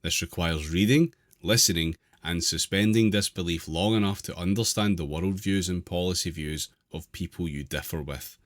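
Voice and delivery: measured reading aloud of an article. Real, not acted. Host reading an article to the group, measured read-aloud. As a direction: read it out clearly, phrase by phrase.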